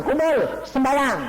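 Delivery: high, slow, loud command; God telling him to gather everyone to pray. Retold or imitated. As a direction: announce it with divine authority. Repeats God's command.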